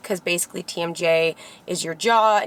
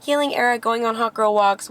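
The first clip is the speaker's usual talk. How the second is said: mocking trend phrase; 4 semitones higher than usual. Shown as a demonstration. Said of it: "not just, like".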